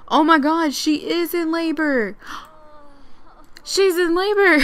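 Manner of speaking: loud, high burst of surprise; shocked excitement. Real, not acted. Player discovering her Sim is in labor, shocked and excited. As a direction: gasp and cry out in disbelief.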